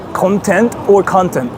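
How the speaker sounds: "content" said twice, stress moved between syllables; contrasting stress. Shown as a demonstration. Streamer explaining intonation to viewers, contrasting stress on "content". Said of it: "depending on, like, how you pronounce it".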